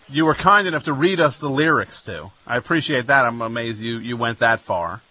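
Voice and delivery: dry, low-pitched sarcasm; sarcastic. Real, not acted. Host thanks songwriter for reading his lyrics, sarcastically. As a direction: thank him with mock appreciation, voice dropping. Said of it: "Do I detect some sarcasm in your voice".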